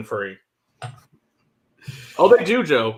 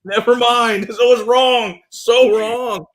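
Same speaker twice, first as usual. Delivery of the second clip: disgusted; 9 semitones higher, slower than usual. Real, not acted. Disgusted by a bad whisky.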